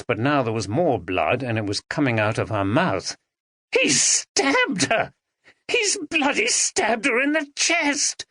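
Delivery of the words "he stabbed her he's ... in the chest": high, slow horrified cry; horrified shout. A narrator's reading. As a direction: Ben shouts as Andrea bleeds. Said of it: "shouted Ben".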